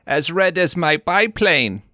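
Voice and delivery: hammed-up lovestruck sweetheart; coy put-on voice. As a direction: flutter it out like a blushing belle. Acted flirty quote, changed voice.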